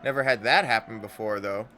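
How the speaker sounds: smug and bold; proud Anna. Acted.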